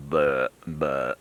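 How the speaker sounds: a dull, lifeless buh buh grunt; flat grunt imitation. Hunter showing a flat grunt, mock buck grunt. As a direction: mimic a bad grunt call with no character. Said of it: "It was just".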